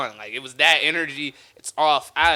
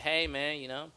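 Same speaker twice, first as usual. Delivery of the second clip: mock consolation; 10 dB quieter than usual. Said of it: "He's like".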